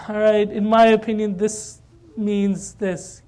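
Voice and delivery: hesitant, drawn-out answer, very slow at the end; reluctant. Retold or imitated. Teacher finally giving his opinion to students, reluctant. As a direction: give in slowly and unwillingly. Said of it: "He's very reluctant to say it".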